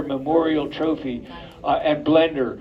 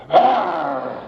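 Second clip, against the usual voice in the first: playful growl. Shown as a demonstration. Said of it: "Everybody tried doing that".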